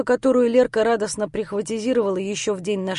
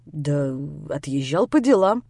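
evasive mumble; 7 semitones lower than usual. Acted. Grisha evading Lera's question.

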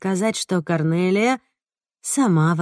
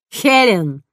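calling out; 3 semitones higher, 4 dB louder than usual. Acted. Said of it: "окликнула я".

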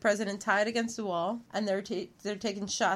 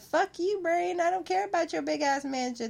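mock Southern belle; 4 semitones higher than usual. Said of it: "She would've been like".

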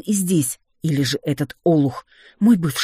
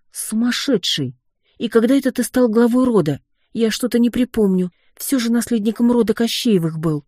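indignant disbelief; 8 semitones higher than usual. Acted. Heroine scolds husband for claiming head of clan, indignant. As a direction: throw your shock at him.

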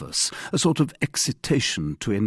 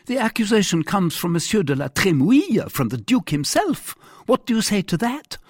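higher-pitched, triumphant monarch; challenging king; 12 semitones higher, 6 dB louder than usual. Acted. King confronting captain with duke's accusation, challenging. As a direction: put the challenge pointedly.

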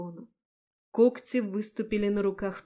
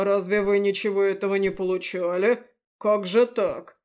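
loud feigned astonishment; fake surprise; 7 dB louder than usual. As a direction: play innocent, overdone. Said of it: "фальшиво удивился".

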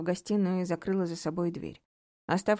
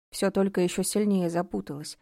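ordinary delivery, nothing marked

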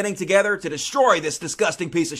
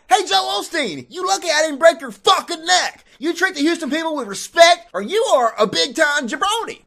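lightly voiced, higher Iron Sheik growl; a hint of a wrestler threatening; Iron Sheik impression; 6 semitones higher than usual. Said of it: "He's like".

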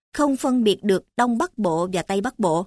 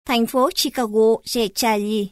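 Chicago and Charlie said the Northern way, "Charlie" as "cha-li"; thành phố Chicago, Che Charlie in Northern Vietnamese; Northern Vietnamese accent. Shown as a demonstration. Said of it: "Bắc".

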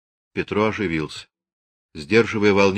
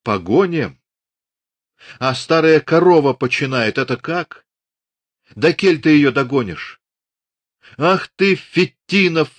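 put-on old man yelling, high and loud; furious roar; 5 semitones higher, 4 dB louder than usual. A narrator's reading. Father rages at Dunyashka, high and loud. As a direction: roar at her in a rage. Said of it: "оранул".

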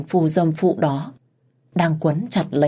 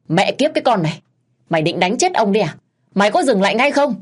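1 angry curse; 4 semitones higher, faster than usual. Acted. Husband curses wife beating him.

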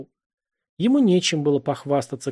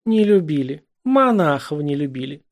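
louder, delighted echo; gleeful; 3 semitones higher, 4 dB louder than usual. A narrator's reading. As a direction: savor his confession gleefully. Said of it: "Чему ты радуешься-то?". (радостно, громче, торжествуя)

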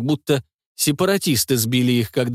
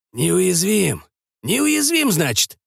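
much higher, scornful echo; mocking outrage; 6 semitones higher, much slower than usual. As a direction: throw the word back in disbelief. Doc mocks the word back.

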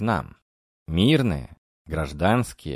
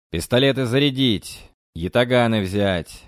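commanding shout; 3 semitones higher, 4 dB louder than usual. Acted. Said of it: "командую я".

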